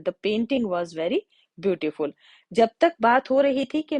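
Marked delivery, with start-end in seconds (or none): 0.0-2.1 slow example repeated. Shown as a demonstration. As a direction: read again very slowly, "very" leaned on. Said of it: "the का use किया है". (दोबारा बहुत धीमे, "very" पर ज़ोर)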